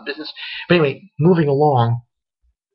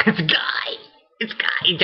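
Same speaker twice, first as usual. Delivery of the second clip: laughing reveal; 4 semitones higher, slower than usual. Real, not acted.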